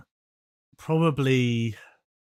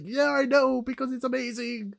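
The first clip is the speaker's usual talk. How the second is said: smug; 5 dB louder than usual. Pretend. Imagined smug reply.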